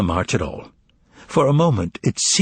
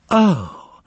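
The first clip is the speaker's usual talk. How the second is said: anguished cry; 7 semitones higher than usual. Acted. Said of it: "came an anguished cry".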